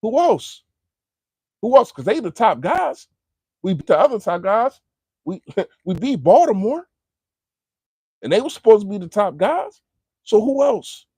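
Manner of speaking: high, loud fired-up challenge; halftime pep speech. Real, not acted. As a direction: challenge every rival with swagger. Challenging rivals, hype.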